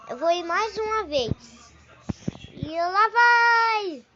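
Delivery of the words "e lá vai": excited. Real, not acted. Riding again.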